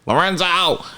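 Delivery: Lorenzo cried high, sliding down at the end; playful calling out. Pretend. Correcting the nickname for the listeners, playful high cry of Lorenzo.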